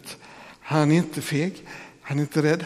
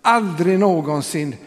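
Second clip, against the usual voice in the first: aldrig någonsin drawn out and pressed, louder; stress on aldrig någonsin; 2 semitones higher, 4 dB louder, slower than usual. Shown as a demonstration. Pastor repeating the Greek double negation, stressed. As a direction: lean on aldrig again, slowly. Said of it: "dubbelnegation i grekiska texten".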